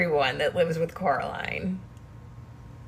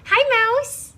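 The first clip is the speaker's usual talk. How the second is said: much higher, louder sing-song to a pet; 12 semitones higher, 6 dB louder, slower than usual. Real, not acted. Greeting her cat Mouse in high baby talk. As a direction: coo at the cat brightly.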